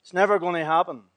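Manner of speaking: quiet solemn ending; hushed close. Acted. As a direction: let it fade into a hushed vow. Closing hushed affirmation.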